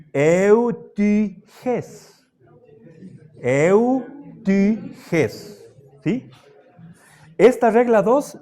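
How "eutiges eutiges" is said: Eutiges broken up as eu, tü, jés; Greek pronunciation. Shown as a demonstration. Teacher models the Greek example twice, separated syllables. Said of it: "tiene su pronunciación propia".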